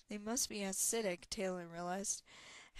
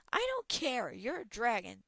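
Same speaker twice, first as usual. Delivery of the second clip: shouted dismissal; 3 semitones higher, 7 dB louder than usual. Acted. Talon shouts down the dragon, loud. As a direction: shout over it.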